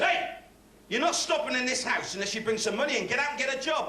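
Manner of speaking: high sudden shout of hey, then a rant; mock furious father laying down the law; angry dad. Father threatens his lazy son, high mock anger.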